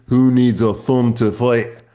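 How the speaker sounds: put-on Irish accent, drawn out. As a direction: quote it like an Irish fighter, in an Irish accent. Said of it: "או במבטא האירי". (מבטא אירי)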